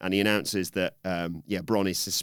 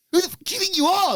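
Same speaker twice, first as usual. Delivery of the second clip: very high, fast, loud mock yell; mock Bron yelling; 4 dB louder, much faster than usual. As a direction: blurt it in a frantic shriek. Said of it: "suddenly Bron's like".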